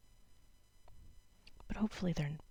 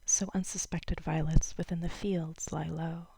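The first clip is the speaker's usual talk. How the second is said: lifted opening, then settling into measured verse; lightly performed poem recital; poetry reading; 4 dB louder than usual. Acted. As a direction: start the poem raised, then ease into it. Reads a short poem aloud.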